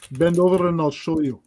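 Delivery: delivered as a mock impression. Shown as a demonstration. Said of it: "You know, like that".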